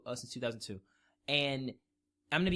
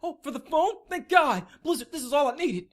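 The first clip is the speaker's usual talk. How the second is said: high, loud, gushing fake delight; hammed-up overjoyed fan; mock gratitude; 11 semitones higher, 7 dB louder than usual. Fan thanking Blizzard for a phone game, sarcastically ecstatic. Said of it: "we're supposed to be like".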